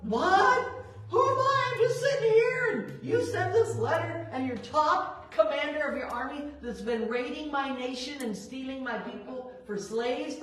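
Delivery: shocked king crying out in disbelief; incredulous outburst. Retold or imitated. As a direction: act out a stunned, indignant king who can't believe the request. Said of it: "the king gets a letter like".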